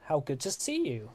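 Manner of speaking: high call on the name, then easing; called-out elf greeting, quickly softening. Acted. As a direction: hail an old friend in a brief shout. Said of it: "an elf's voice shout out".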